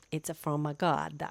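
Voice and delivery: put-on playful, light Italian accent; mock Italian accent. Vlogger telling viewers where ideas come from, joking Italian accent. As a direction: slip jokily into an Italian accent. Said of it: "Now I'm Italian".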